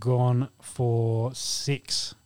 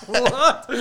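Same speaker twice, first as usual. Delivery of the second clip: high disbelieving What; shocked, pitched way up; incredulous; 9 semitones higher than usual. Real, not acted. Shocked reaction to story.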